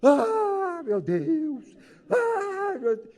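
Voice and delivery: imitating a woman bursting into tears, high wail on ah; hammed-up sobbing at a stranger's wake; theatrical fake grief, cry breaking on the second ah; mock wailing. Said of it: "aí ela desaba a chorar".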